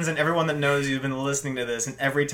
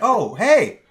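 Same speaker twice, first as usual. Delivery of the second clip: higher, breezy, casual surprise; mock cheery; 9 semitones higher, 7 dB louder than usual. Boyfriend learning her real name, mock cheery. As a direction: play it off all cheerful. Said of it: "And they're like".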